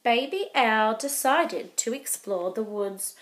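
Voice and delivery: gentle storybook read-aloud; reading to children. A narrator's reading. Teacher reading a picture book to young kids, gentle. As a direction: read it like storytime for little ones.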